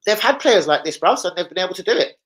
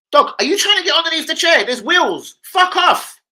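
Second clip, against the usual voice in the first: shooing the dog; 13 semitones higher, 5 dB louder than usual. Real, not acted.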